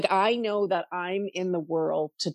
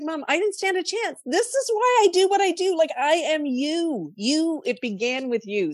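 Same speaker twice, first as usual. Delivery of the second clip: much higher, slowing, voice close to tears; a daughter's sudden overwhelmed realisation; emotional outburst; 12 semitones higher than usual. Retold or imitated. Telling her dying mother in the car, high and emotional. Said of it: "and I was like".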